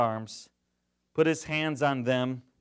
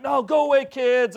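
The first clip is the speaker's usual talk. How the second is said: bossy apostles; 9 semitones higher, 6 dB louder than usual. Retold or imitated. Apostles shooing kids away.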